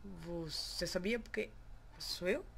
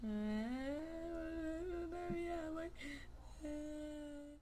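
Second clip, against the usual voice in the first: strange put-on voice; 8 semitones higher, 4 dB quieter, much slower than usual. Odd drawn voice at the end.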